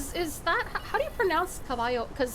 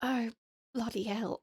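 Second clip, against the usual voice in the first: British mum; 3 semitones lower, 5 dB quieter than usual. Pretend. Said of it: "five minutes of the mum and British voice".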